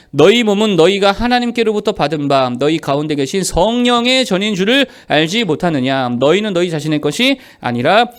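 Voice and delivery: loud, measured Bible reading; firm read-aloud of scripture. Acted. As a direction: read the verse out for a congregation. Leads congregational scripture reading.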